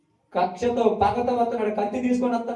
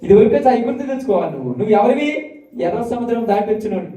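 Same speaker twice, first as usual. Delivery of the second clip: stern rebuke; 3 semitones lower, 4 dB louder than usual. Real, not acted. Preacher rebukes congregation.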